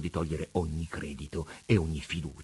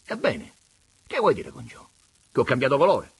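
Pigna defensive; 7 semitones higher, 8 dB louder than usual. A narrator's reading. Pigna replies.

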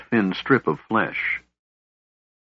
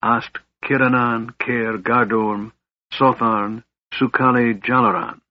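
calm casting of a lightning spell; spell incantation. A narrator's reading. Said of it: "he held forth his right hand and spoke".

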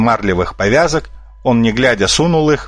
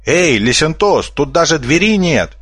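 shouting; 6 semitones higher than usual. A narrator's reading. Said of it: "закричал Медведон".

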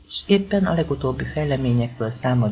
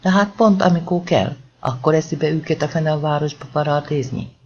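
mock rural accent; 2 semitones higher than usual. Warren still mocking the locals, rural Hungarian accent. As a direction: keep up the country-yokel put-on, exasperated. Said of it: "Most a vidéki akcentus eltűnt".

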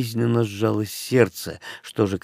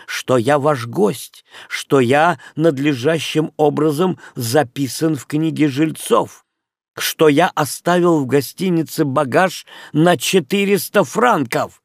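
громко и взволнованно; 4 semitones higher than usual. Acted. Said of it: "громким, но дрожащим от волнения голосом".

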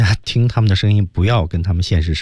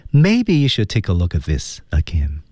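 gentle suggestion. Shown as a demonstration. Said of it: "非常温柔的提了一个建议".

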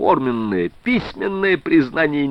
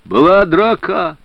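hoarse cry; 7 semitones higher, 5 dB louder, slower than usual. A narrator's reading. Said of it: "прохрипел Суворов".

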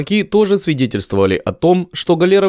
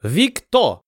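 high, mangled foreign hail; broken-accent shout; 6 semitones higher than usual. Acted. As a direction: fat Ottoman shouting from the galley, broken words. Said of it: "коверкая слова, закричал".

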